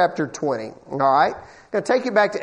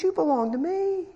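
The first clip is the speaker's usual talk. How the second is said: voice of God; 7 semitones higher, 6 dB quieter than usual. Acted. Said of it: "God says".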